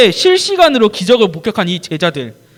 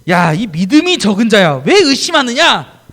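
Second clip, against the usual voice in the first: stern Jesus; 3 dB louder, slower than usual. Acted. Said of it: "라고 하시며".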